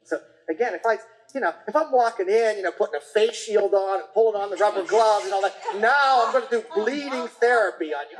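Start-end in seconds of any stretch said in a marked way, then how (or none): 2.6-8.2 laughing while miming the gloved-up practitioner; a light, laughing mock of the scary practitioner; laughing mock threat. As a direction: play up the ominous doctor through a laugh. Mock scary bleeding announcement.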